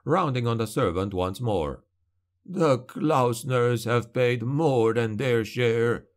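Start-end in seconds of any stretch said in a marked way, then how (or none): 2.4-6.1 put-on slow, aggrieved old voice; an old man who has lost too much; bitter old lord. Old lord rounds on servant.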